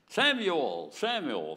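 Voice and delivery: loud call of a name, twice; preacher voicing God's loud summons. God calling Samuel by name twice.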